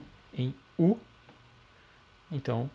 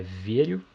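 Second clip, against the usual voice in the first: verio with the stress on "ve"; stress on the root. Shown as a demonstration. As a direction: lean on the first syllable of verio. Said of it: "a sílaba tônica tá na raiz".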